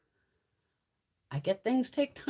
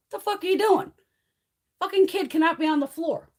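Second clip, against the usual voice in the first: retold security yell; 8 semitones higher, 4 dB louder than usual. Security yelling at gamblers.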